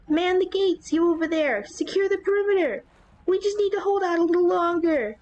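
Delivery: high, loud frantic orders; shouting orders. Acted. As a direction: bark orders at panicking troops. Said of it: "officer shouts hurried orders".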